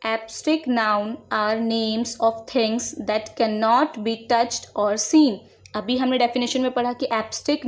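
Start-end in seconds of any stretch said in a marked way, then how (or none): 0.1-5.4 each word spaced out for copying; slow dictation. Shown as a demonstration. Teacher to students, dictating the definition slowly. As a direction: read it slowly so students can write.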